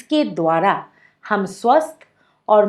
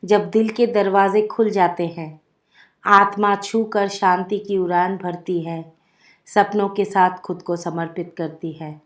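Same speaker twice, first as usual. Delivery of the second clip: measured, projected poem reading with pauses between lines; poem recitation. Acted. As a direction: recite verse line by line, voice lifted. (कविता पाठ)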